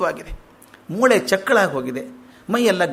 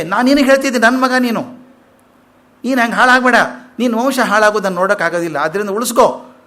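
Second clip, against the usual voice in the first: higher and louder, pleading with his son; earnest plea; 3 semitones higher, 4 dB louder, faster than usual. Retold or imitated. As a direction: press the plea home, raised and urgent. (ಮಗನನ್ನು ತಿದ್ದುವ ಋಷಿ, ಎತ್ತರದ ದನಿಯಲ್ಲಿ ಕಳಕಳಿಯ ಬೇಡಿಕೆ)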